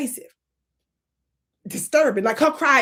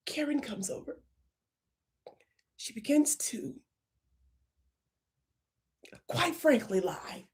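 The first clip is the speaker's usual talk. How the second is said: hushed whisper, breathy confidences; 10 dB quieter than usual. Shown as a demonstration. Comedian demonstrating whispered account to the manager. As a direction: whisper it like a secret. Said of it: "Don't just say lie".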